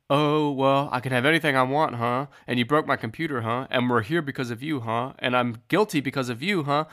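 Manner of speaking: sarcastic bargaining, each huh pushed up; mocking Jimmy negotiating. Podcaster mocks Jimmy haggling, sarcastic and pushy. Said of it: "Jimmy is, like, terrible negotiator".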